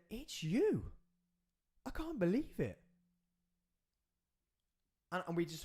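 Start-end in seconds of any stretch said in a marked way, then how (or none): 0.1-2.8 moved quote. Retold or imitated. Man's emotional words at reunion.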